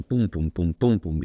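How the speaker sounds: hammer thuds. Retold or imitated. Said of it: "como martillo pilón".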